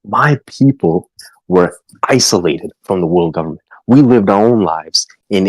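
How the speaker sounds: a lightly voiced lecturing mom; stern mother. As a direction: lecture your daughter like a worried mother. Mother character lecturing daughter.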